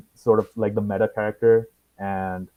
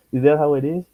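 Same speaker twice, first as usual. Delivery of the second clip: higher second try at Kiwi accent; attempted New Zealand accent; 4 semitones higher than usual. Shown as a demonstration. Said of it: "I'll try the accent".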